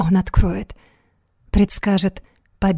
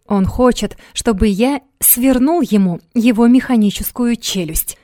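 imposing; 3 semitones higher than usual. Acted. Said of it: "Внушительно проговорил Максимилиан".

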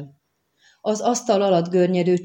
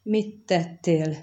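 groaning; much slower than usual. Acted. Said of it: "nyögött bele a csöndbe".

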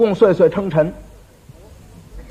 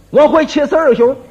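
boastful; 5 semitones higher, 4 dB louder than usual. Acted. Drunk braggart boasts.

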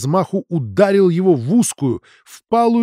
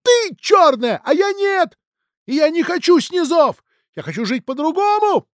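furious shout; 4 dB louder than usual. Acted. Son shouting at father.

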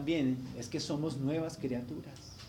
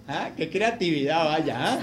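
laughing; 3 semitones lower than usual. Retold or imitated. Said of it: "Yo me río y que pensé".

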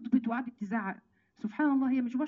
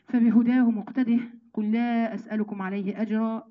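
slow, louder chanted recitation; Quran recitation; 4 dB louder, slower than usual. Acted. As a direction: open the verse loud and drawn out. (تلاوة بصوت أعلى وبطء)

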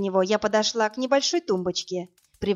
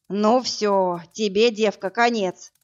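louder furious threat; furious shout; 4 dB louder, slower than usual. Acted. Brute shouting at the woman in fury. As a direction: roar the threat at her. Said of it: "яростно крикнул мордоворот".

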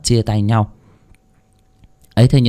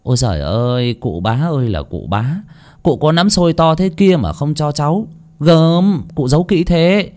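hammed-up whining plea rising higher; mock wailing lament; 5 semitones higher than usual. Boy fakes lamenting to the landlord, mock wailing. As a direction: fake a pitiful wail to the heavens. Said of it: "giả giọng than trời".

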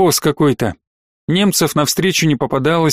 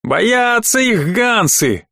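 soldier voice; 6 semitones higher, much slower than usual. A narrator's reading.

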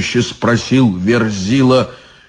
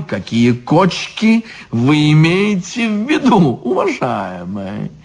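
dainty devil; 3 semitones higher than usual. Acted. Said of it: "спросил он стражника".

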